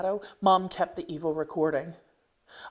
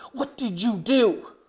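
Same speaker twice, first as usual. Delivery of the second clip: angry mom; 5 semitones higher, 6 dB louder, slower than usual. Acted. Mom finds the smashed TV.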